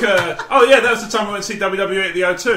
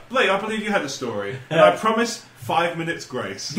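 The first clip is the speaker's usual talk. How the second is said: mock calm. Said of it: "Just be really calm".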